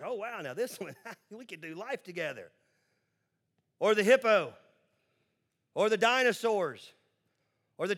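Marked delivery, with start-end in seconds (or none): 0.0-2.5 hushed, amused aside with a chuckle; mock wonder, tailing off into softness; mock smitten. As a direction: play at falling for an animal, softly. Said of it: "go up to the giraffe and be like".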